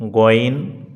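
গইন with a throaty gh, said apart; name the letter গইন slowly from the throat; letter name ghayn. Shown as a demonstration. Teacher naming the letter গইন for students. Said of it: "একটি হচ্ছে".

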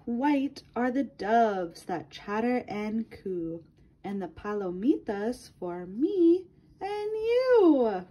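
lilting read-aloud for a class; reading to children. Acted. Teacher reading a color book to her class, lilting read-aloud. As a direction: read it to little ones, rhyme by rhyme.

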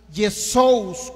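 Yesous with a loud, clear O-U glide; diphthong demo. Shown as a demonstration. Teacher showing where two vowels join, Yesous pronounced emphatically. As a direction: sound out the joined O and U in Yesous. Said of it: "se unen dos vocales".

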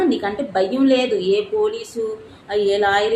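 scolding Mr Ravikrishna with a loud shout; angry shout. Real, not acted. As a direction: hurl the accusation at him. Angry accusation.

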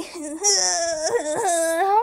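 put-on long whiny baby wail; acted drawn-out whimper; baby crying. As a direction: cry like a fussing baby. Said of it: "don't cry".

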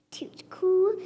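breathy blow over the hot bite; blown whisper. Acted. Child blowing on hot potato, whispering. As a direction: whisper it while blowing on the fork.

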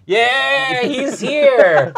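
loud, high celebratory shout; delighted cheer. Real, not acted. Player celebrates the owl arriving, loud high cheer.

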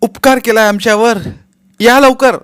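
loud, high sarcastic spit; hissing sarcasm. Acted. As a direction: spit the words at him. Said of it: "अंगावर फुतकारल्यासारखी ती म्हणाली".

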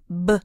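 "b" alone as a short voiced stop; b sound. Shown as a demonstration. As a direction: sound out "b" without a puff of air. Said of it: "no air comes out".

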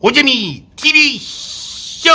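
slow, loud, high show-title call; announcer voice. Acted. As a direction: boom out the show name.

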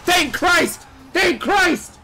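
very high, loud relieved cries; relieved shouts. Real, not acted. Gamer shouts in relief after finally winning the fight. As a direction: shout your relief again and again.

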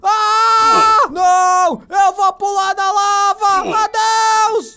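loud, high desperate cry; panicked shout. Real, not acted. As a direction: shout as all goes wrong. Cornered, jumps into lava.

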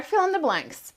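ordinary talk

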